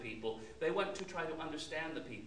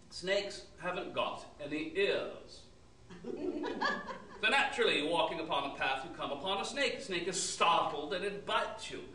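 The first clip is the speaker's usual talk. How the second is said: pompous know-it-all. Acted. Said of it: "saying things like".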